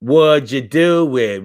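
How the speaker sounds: slow, mock-insistent drawn-out question; playful drawl. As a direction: stretch each word out playfully. Exaggerated repeat of own question.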